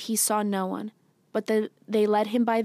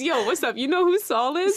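excited; 6 semitones higher, 4 dB louder than usual. Retold or imitated. Acting their phone calls.

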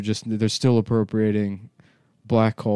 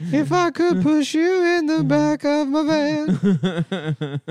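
high mock voice; 3 dB louder than usual.

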